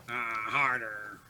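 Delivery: breathy whispered echo. Real, not acted. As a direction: drop to a hushed whisper. Echoing himself in a whisper.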